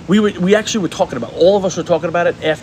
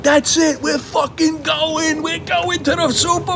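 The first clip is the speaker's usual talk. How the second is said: high, slow, jubilant cheer; retold celebration; 13 semitones higher, slower than usual. Friends on the ski bus celebrating the lead, high and drawn out. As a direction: crow it out like the game is already won.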